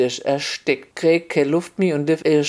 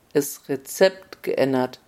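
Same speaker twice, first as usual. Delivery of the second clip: slow, softer, dry echo of the words; the king savours the phrase with irony; a lightly voiced king's ironic echo; wry repeat; 2 semitones lower, 4 dB quieter than usual. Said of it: "sagte König".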